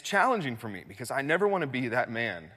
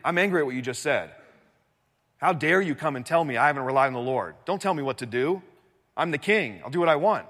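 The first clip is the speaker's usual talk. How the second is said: indignant king, mildly raised voice; acting angry; 2 semitones higher, 5 dB louder than usual. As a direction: play an affronted king laying down the law. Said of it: "He's angry".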